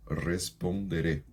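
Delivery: responderé slowly, with tapped r sounds; careful R's. Shown as a demonstration. Teacher drilling the R for students. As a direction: take responderé slowly, tapping each r. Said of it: "e dos R's".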